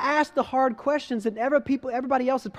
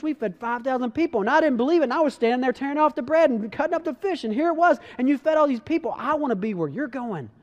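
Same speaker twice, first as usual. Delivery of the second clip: pleading Peter; 4 semitones higher than usual. Retold or imitated. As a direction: beg to stay close, then admit fear. Pastor acts out scared Peter.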